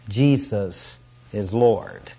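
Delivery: low, soft, slow and unenthusiastic; trailing away. Acted. Preacher acting inmates who are not as enthusiastic, trailing away. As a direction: let it trail away, half-hearted. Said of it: "they will trail away".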